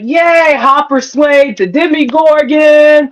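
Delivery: a contained "yay" of celebration; retold cheer. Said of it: "I was cheering for everybody".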